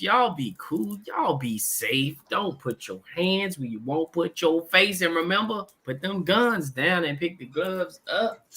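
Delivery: ordinary talk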